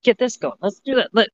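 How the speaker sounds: high, eager nagging "hey let's go"; pushy hyped friend. Retold or imitated. Friend pestering an anxious person, high eager nagging. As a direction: mimic someone badgering you to hurry up. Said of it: "coming at me like".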